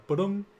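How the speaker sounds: vocalized ba-dum sound effect; spoken imitation of a sound cue; imitated ba-dum noise. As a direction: voice a short ba-dum sting. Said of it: "get that noise".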